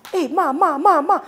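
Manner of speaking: high, loud desperate yell for mom; panicked shout calling ma; shouting for mother. Retold or imitated. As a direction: cry out for your mother at the top of your lungs. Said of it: "I was shouting on top of my voice".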